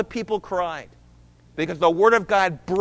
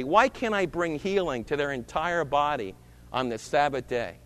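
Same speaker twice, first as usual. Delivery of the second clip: gentle reasoning; 4 semitones lower than usual. Acted. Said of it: "And Jesus says to them this".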